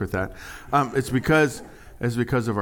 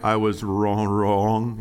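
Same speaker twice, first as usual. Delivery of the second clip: Fonzie stumbling; 3 dB louder, much slower than usual. Retold or imitated. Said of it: "Fonzie couldn't say it".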